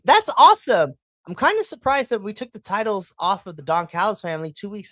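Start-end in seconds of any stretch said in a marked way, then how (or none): 0.0-0.9 loud, high burst of delight; excited. Retold or imitated. Fan watching the titles change hands, excited outburst. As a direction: blurt it out like a thrilled fan. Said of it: "I'm sitting here and I'm like".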